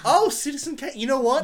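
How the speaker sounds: Orson Welles. Shown as a demonstration. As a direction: launch grandly into the impersonation, loudly. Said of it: "Could you give us a hit?".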